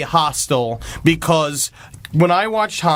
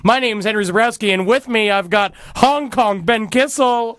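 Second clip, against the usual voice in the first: podcast host intro; 4 semitones higher than usual. Shown as a demonstration. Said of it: "You say name of the show".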